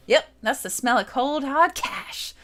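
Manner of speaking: lightly voiced cocky thief girl with a put-on accent; a hint of a brash treasure hunter sure of the loot; Kid voiced. Kid sizing up the door, in a lightly put-on cocky accent.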